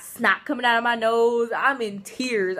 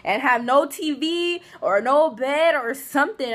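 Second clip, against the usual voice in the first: higher, louder half-joking panic; mock panic; 4 semitones higher, 5 dB louder than usual. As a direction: retell the panic, hammed up a little. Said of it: "I'm sitting there like".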